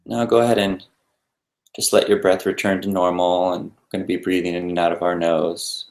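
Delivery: unhurried guidance with long pauses between phrases; guided meditation. Real, not acted. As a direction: lead listeners gently through breathing, leaving space after each instruction.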